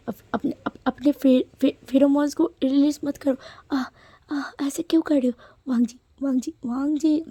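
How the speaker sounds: panicking as he loses control; flustered alarm. Acted. Alarmed as pheromones are released. (घबराई हुई ऊँची आवाज़ में)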